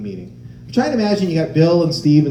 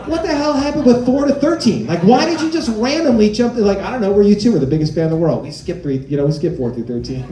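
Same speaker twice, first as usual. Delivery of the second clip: baffled rant; 2 semitones higher than usual. Retold or imitated. Mocking a band for skipping numbers, laughing disbelief. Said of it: "I'm like".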